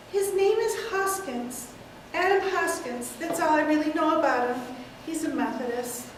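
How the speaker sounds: put-on matter-of-fact old lady; elderly aunt. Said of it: "take several characters".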